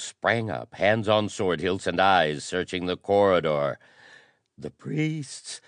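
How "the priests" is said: high, breathy gasp of alarm. Acted. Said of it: "gasped a short, broad-shouldered noble".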